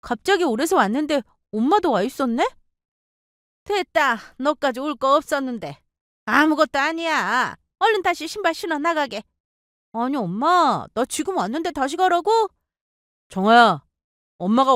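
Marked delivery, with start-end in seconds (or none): 3.6-9.2 put-on higher, brushing-off older woman; curt mother-in-law. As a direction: wave her daughter away. Mother-in-law dismisses daughter.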